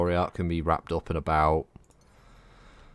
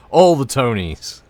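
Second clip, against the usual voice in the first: laughing; 6 semitones higher, 9 dB louder, slower than usual. Real, not acted. Laughing at silly names.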